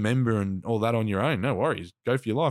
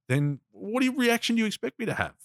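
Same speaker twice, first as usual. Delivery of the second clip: higher-pitched indignant retelling; losing it, retold; 12 semitones higher than usual. Answering back at the pub pest, indignant. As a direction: replay the angry comeback, voice raised in pitch. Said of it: "I sort of lost it".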